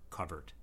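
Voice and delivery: "covert" said as KUV-ert; traditional pronunciation. Shown as a demonstration. Teaching the long-standing pronunciation, cover vowel. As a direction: say "covert" with the uh of cover, set apart. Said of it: "the traditional and long-standing pronunciation".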